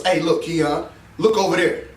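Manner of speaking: a low-pitched nudge from inside the head; little inner voice. Acted. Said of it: "It's a little voice that we hear".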